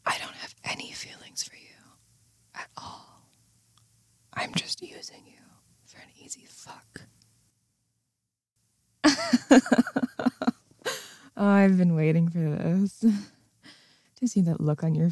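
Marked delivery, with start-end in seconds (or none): 0.0-7.0 whisper in left ear. Acted. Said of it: "while I whisper into your ear". 9.0-10.5 high cackling laugh of triumph; mocking laugh. Cruel reveal after whispered confession.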